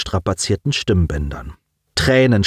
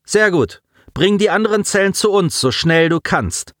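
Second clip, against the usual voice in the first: eerie, higher commander voice; ghostly voice; 10 semitones higher than usual. Acted. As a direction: sound distant and ghostly. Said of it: "erklang geisterhaft die Stimme".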